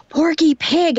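high, excited exclamation; imitated starstruck cry. Airport worker recognizing Porky Pig's voice actor, mock starstruck cry. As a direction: blurt it high like a thrilled fan.

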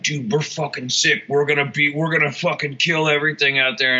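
mock enthusiasm, pitch lifted throughout; Kevin, very enthusiastic. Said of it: "he's very enthusiastic".

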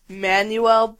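"Manuel" said slowly the Spanish way, man-WEL; drawn-out Spanish "Manuel" with the stress on the last syllable; Spanish pronunciation. Shown as a demonstration. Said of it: "like, Spanish guy".

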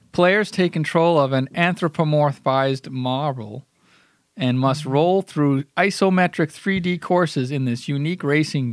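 measured audiobook-style read; cold read. Shown as a demonstration. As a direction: read the game blurb aloud, taking your time. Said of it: "What a great cold read".

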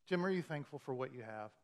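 soft, understated probing question; hushed, searching question; gentle question. Retold or imitated. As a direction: quietly voice the Holy Spirit asking. Holy Spirit's gentle question retold.

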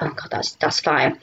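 breathless hushed awe; awed whisper. Retold or imitated. Retelling the invite to meet Noel, a hushed awed whisper. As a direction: whisper it like you can't believe your luck.

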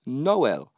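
Noel in two syllables, drawn out slowly; Jamaican pronunciation. Shown as a demonstration. Speaker demonstrating his name's Jamaican pronunciation, Noel slow in two syllables. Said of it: "That would be the Jamaican pronunciation".

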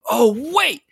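high, loud double take; sudden realization. Retold or imitated. Fan recalling a rewatch moment, high loud surprise. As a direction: jolt of surprise, then it clicks. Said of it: "I was like".

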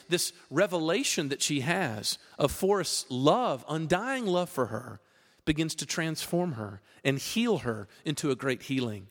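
ordinary talk

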